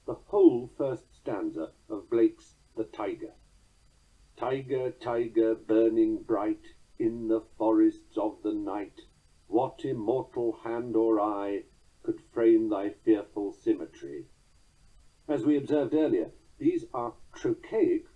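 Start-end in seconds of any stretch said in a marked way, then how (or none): 4.4-14.3 slow, measured recitation of verse; poem reading. Acted. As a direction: let each stressed beat land, unhurried. Reads Blake poem aloud.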